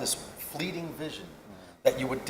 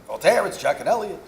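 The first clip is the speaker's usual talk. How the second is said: put-on higher, louder Hasidic Jewish landlord accent; 5 semitones higher, 7 dB louder than usual. Landlords' note read aloud in a Hasidic Jewish accent. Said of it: "I'm trying not to do the accent 'cause it's so tempting".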